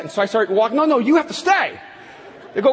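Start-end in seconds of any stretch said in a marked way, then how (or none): 0.8-1.8 amused. Retold or imitated. Crew laughing correction.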